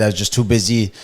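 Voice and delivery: imitating a man talking too loudly; loud bank manager. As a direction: say it brazenly loud, as he did. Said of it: "Loud as fuck in the bank".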